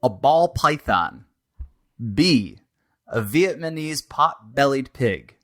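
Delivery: measured game show host listing choices; deliberate multiple-choice read-out; quiz options read. Acted. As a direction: announce each choice separately, with a pause between.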